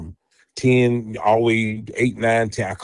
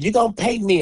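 higher-pitched mock disbelief; incredulous question; 8 semitones higher than usual. Recalling the divorce money demand, incredulous. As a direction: ask it as if it's absurd.

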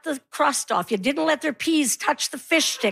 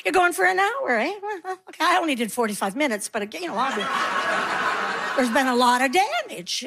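faking casual; 3 semitones higher than usual. Pretend. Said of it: "pretend like you're not nosy".

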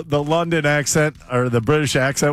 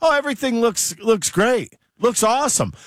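higher-pitched, mildly gushing approval; imitation of easy praise; mock optimism; 6 semitones higher than usual. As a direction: lightly parody an uncritical fan. Quoting an uncritical cheerleader.

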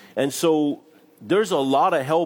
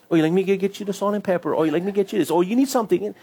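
higher, brisk, eager offer to fetch things; eager servant; 7 semitones higher, faster than usual. Retold or imitated. Church members serving each other, higher and eager. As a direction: play a cheerful waiter jumping to serve.

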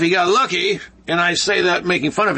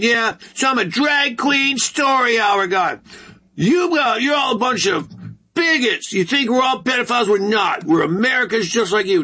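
mocking indignant drag queen; 4 semitones higher than usual.

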